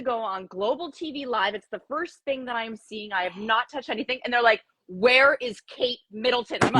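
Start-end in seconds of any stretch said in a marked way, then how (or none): 4.9-6.6 louder, emphatic mock demand; retold urgent question. Quotes the TV crew asking.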